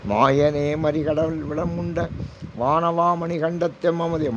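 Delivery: drawn-out devotional intoning; slow verse recitation. Acted. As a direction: stretch each word of the hymn slowly. (மெதுவாக பாடல் ஓதுதல்)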